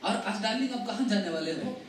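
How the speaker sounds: softly voiced wife's question; gentle wife. Wife asks her husband where he is going, gently. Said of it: "बड़े नम्रता से वो बोलती".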